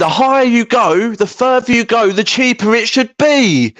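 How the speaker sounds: high-pitched, insistent rant; worked-up, high-pitched insistence; emphatic interjection. Real, not acted. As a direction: jump in, pitch way up, driving the point home. Jumps in to press their point.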